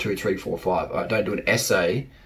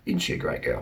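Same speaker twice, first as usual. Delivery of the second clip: put-on admiring boyfriend; 6 dB quieter than usual. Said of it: "your guy will be like".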